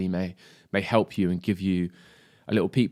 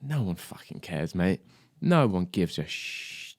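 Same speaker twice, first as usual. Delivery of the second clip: lightly voiced little devil, hushed; quiet, insinuating devil, slowing at the end; devil on the shoulder; 4 dB quieter, slower than usual. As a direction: creep in softly like a nagging inner voice. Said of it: "little devil on your shoulder creeps in".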